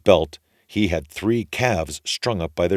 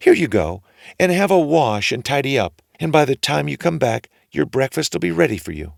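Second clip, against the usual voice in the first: high, louder bustling wife; wife's voice; 9 semitones higher, 5 dB louder than usual. A narrator's reading. Ogre's wife sending her husband to wash, high.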